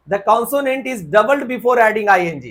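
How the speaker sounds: reading the rule out slowly, word by word; teacher dictating a rule. Shown as a demonstration.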